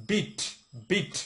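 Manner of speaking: "বিট" with punched b and crisp final t; correct beat. Shown as a demonstration. Teacher corrects the word from songs, "বিট" punched crisply. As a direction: strike "বিট" as a separate, forceful word. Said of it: "আসলে হবে কি".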